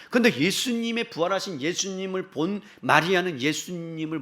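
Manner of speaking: loud, high, ringing pulpit delivery; impassioned preaching. Real, not acted. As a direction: drive the question home, stretching the endings. Preaches at full force. (열정적으로 외치는 설교)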